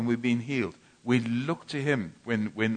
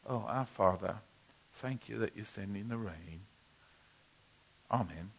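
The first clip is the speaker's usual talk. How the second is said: softer, lazy polite prayer; limp prayer; 3 semitones lower, 8 dB quieter than usual. Retold or imitated. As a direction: pray with no fire at all. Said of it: "It's not like".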